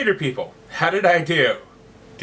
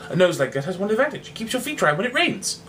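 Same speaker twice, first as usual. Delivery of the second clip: higher, matter-of-fact quip; practical; 6 semitones higher than usual. Acted. Cyrano giving the heckler practical advice, higher. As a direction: deliver it as a practical tip.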